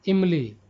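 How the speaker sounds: इमली with a short, unstressed first i; short opening vowel in इमली; no stress on short i. Shown as a demonstration. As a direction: say इमली lightly, without leaning on the opening vowel. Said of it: "इमली में हर्षई पर जोर नहीं पड़ा".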